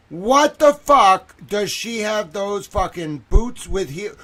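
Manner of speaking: loud, high outraged question; appalled disbelief. Real, not acted. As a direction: demand to know, horrified. Appalled at the child's clothing.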